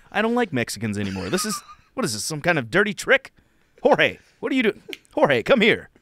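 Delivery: lightly voiced fussy old white man; 1950s white racist. The fifties racist inside him calling Jorge, lightly voiced. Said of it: "I'm a nineteen fifties white racist".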